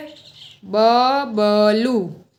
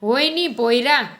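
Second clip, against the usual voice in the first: Parsi auntie voice; 4 semitones higher than usual. Acted. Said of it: "શિરીનબેન".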